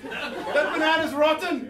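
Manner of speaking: slow, high Scouse drawl; a laughing mock Liverpool accent. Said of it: "continue now with, uh, Liverpool accent".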